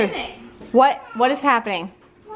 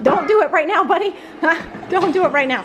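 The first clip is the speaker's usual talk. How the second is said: laughing, higher, don't do it; laughing plea; 9 semitones higher than usual. Real, not acted. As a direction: beg through laughter. Son about to lift her.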